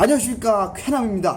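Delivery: bursting, punchy, high-pitched, full of energy. Speaker showing how they'd open the next class if told to do it as before: energetic greeting. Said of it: "에너지를 팍팍 ... 예전처럼 해라".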